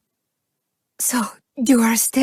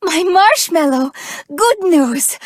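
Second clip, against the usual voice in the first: higher, bright burst of joy on marshmallow; excited greeting; 5 semitones higher than usual. Acted. Greeting her sweetheart with big news, excited. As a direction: call out the pet name with delight.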